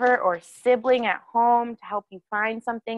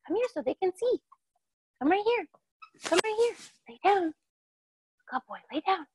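much higher, coaxing sing-song dog talk; calling the dog; 9 semitones higher, 4 dB quieter than usual. Real, not acted. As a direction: coax the dog over in a high pet voice. Coaxing the dog onto mat.

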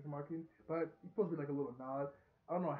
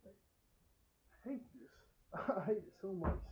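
real annoyance; 4 semitones higher, much slower than usual. Real, not acted. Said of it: "so annoying".

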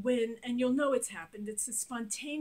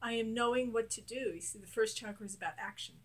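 guided affirmations. Shown as a demonstration. Coach leading a tapping exercise, steady affirmations. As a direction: lead the listener through each line.

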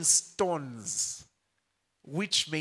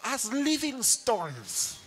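laughing pun; 7 semitones higher, much slower than usual. Shown as a demonstration. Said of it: "some are getting it now".

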